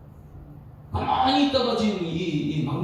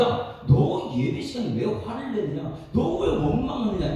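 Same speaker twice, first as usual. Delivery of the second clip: God rebuking; 3 semitones higher than usual. Retold or imitated. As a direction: scold like a displeased father. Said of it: "이렇게 했을 때".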